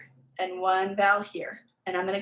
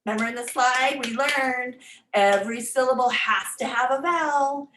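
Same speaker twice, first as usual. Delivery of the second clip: a touch louder and brighter, reminding the student; teacher reminder; 4 semitones higher, 4 dB louder than usual. Retold or imitated. Teacher reminding a student of the rule, a touch louder. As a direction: gently prompt the student to recall the rule. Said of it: "I always remind them".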